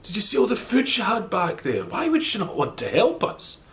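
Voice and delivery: put-on high, young voice close to tears; a small boy pleading with his mum; wee boy's voice. A narrator's reading. Wee boy asking his mum why the old woman won't help, in a high voice close to tears. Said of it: "He said".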